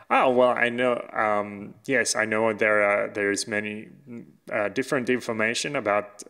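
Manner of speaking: put-on quoting in an accidental German accent. Podcaster quoting Russian prime minister on aliens, botched German accent. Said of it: "I'm doing a German accent".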